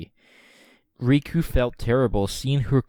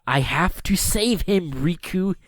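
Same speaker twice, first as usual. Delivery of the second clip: Kairi voice; 7 semitones higher than usual. A narrator's reading. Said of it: "she said".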